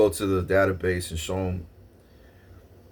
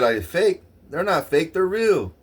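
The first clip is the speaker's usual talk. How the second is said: high, indignant clerk's denial; a hint of a flustered clerk; mock denial; 7 semitones higher than usual. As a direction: play the clerk protesting, pitched up.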